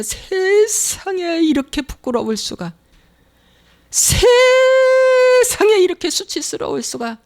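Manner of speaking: slow, rising into a high sung wail; shamed lament. Acted. Preacher voicing a believer ashamed before God, slow wailing lament.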